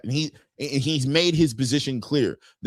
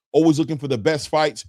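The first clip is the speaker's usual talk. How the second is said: ordinary delivery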